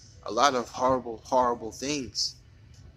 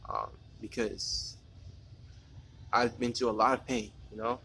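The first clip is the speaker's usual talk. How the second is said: holding back tears; 5 dB quieter than usual. Real, not acted. Confessing his past pain, voice close to crying. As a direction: voice thinning to a near-breathless hush, fighting tears. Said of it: "I'm trying not to cry".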